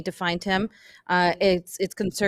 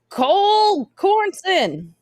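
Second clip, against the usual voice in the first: calling out; 12 semitones higher, 5 dB louder, much slower than usual. Acted. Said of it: "And I go".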